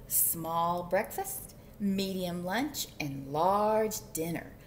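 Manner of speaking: measured picture-book reading; story narration. A narrator's reading. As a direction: savor each item for young listeners. Reads picture book aloud.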